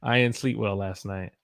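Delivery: Southern US dialect, words run together; Southern accent. Shown as a demonstration. Teacher shows learners how she would say it, Southern accent. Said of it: "That's how you would say it like me".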